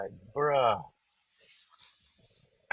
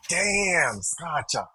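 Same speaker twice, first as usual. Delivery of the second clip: shocked exclamation; 6 semitones higher, much slower than usual. Retold or imitated. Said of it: "I was like".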